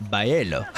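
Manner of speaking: paella after stuttered starts, pie-EL-oh; stumbling into paella as pie-EL-oh; struggling paella. Shown as a demonstration. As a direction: fight through pa-, pa- to paella. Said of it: "my mouth don't do the thing".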